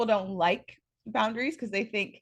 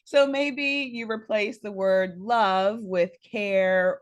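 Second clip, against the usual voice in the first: laughing; 4 dB louder, slower than usual. Real, not acted. Talks through laughter after joke.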